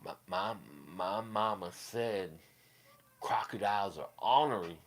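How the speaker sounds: soft, halting movie-character imitation; Waterboy. Quoting mama's words as Waterboy, soft hesitant imitation.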